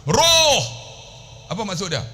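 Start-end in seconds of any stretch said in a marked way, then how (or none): 0.1-0.6 loud, high, drawn-out call; mock bellow of a single stretched word; imitated Arab shout. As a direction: holler it like shooing someone from the path. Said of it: "Arab akan sebut".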